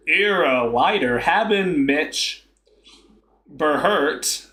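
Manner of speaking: German in a slow, exaggerated Texas drawl; Texas accent. Shown as a demonstration. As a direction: read it like the most American Texan. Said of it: "I'll put, like, a Texas accent on".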